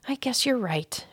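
nervous whispered agreement; a worried mother giving in, in a whisper. A narrator's reading. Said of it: "agreed Ralph's mother nervously".

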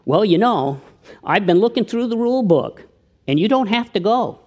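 deadpan the punchline; lightly voiced calm Coolidge; calm Coolidge reply. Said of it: "he said calmly".

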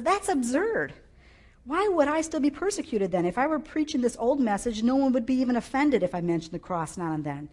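indignant, exasperated outburst; Paul. Acted. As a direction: argue it heatedly, as an acted angry rebuttal. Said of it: "someone who was so angry".

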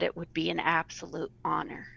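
words catching with emotion; choked up. Real, not acted. Guest retelling her big yes, choked up. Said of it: "Sorry, I'm getting emotional".

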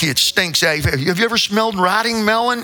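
ordinary talk

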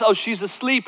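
softly, as if it were only a nap; casual, hushed dismissal. Acted. Jesus making light of a girl's death, casual and hushed. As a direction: play death down quietly. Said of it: "like an afternoon nap".

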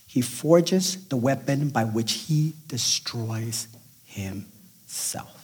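slow and heavier, fading to a whisper on himself; slow reading. Shown as a demonstration. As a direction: let the last word drop to a breath. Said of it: "Can I read it again?".

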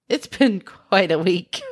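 laughing it off; a rueful laugh through the words. Real, not acted. Laughing through a rough week.

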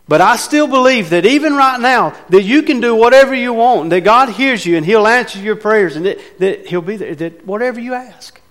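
aggravated but believing. Acted. Martha telling Jesus she's upset but still believes. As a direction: let her complain, then hold on to faith.

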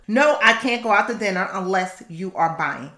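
the no you should not use; wrong way to say no. Shown as a demonstration. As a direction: say it like you might give in. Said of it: "Don't say it like that".

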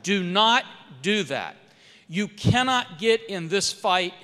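emphatic, deliberate warning; retold pleading. Staff urge congressman to stay out, emphatic retold pleading. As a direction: urge firmly, each word weighted. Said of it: "They told me and pleaded with me".

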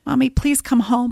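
daughter's text begging mom to come home; child pleading. Retold or imitated. Reading daughter's pleading text aloud.

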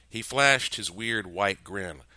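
usual speaking voice

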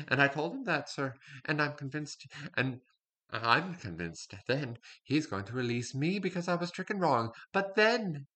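sly servant telling his tale in a put-on accent; scheming servant character. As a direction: play the cunning kitchen spy, confiding to the sir. In-character monologue as servant spy.

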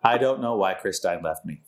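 monotone robot voice; flat robotic delivery. Pretend. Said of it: "this robot voice is like".

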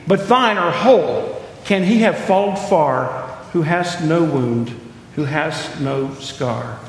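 intoned verse, reverent; poem recitation. Acted. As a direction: read it like a sacred poem. Reciting poem's second stanza.

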